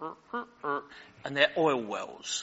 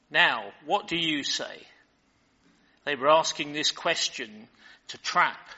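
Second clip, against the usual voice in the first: measured, deliberate Bible reading voice; scripture reading. Acted. Pastor reads the Gospel passage to his congregation, measured reading.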